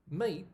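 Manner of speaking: mate said clearly with a rising tune; mate demo. Shown as a demonstration. Teacher modelling mate for learners. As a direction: say mate slowly, as a model word. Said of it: "I'll come to pronunciation".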